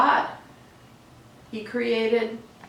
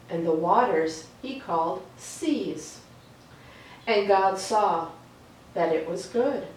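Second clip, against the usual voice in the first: reading Genesis aloud. A narrator's reading. Reading the creation story to children, calm storytelling read. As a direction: let each line settle before the next.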